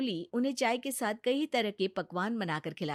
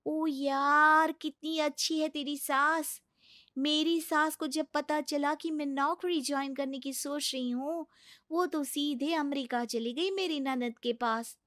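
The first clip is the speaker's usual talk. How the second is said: envious office friend; 5 semitones higher than usual. Acted. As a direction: marvel enviously, then grumble chattily.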